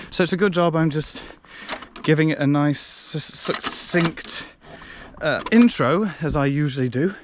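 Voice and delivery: deadpan irony about a long intro; sarcastic. Acted. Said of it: "Sarcasm alert".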